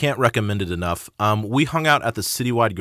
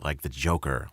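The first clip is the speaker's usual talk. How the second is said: Joker voice; 6 semitones lower, 6 dB quieter than usual. Pretend. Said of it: "I could do that too".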